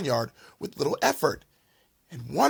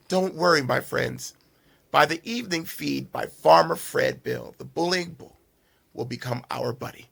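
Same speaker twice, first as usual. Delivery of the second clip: gentle reassuring pig, easing down softer; calm the frightened friends tenderly; soft and soothing. Acted. Pig soothing scared friends: soft and soothing tone. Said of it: "in a soft and soothing tone".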